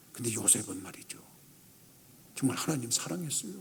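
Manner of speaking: very low, hushed preaching; quiet, reverent low voice; solemn hush. Real, not acted. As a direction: drop right down, soft and earnest.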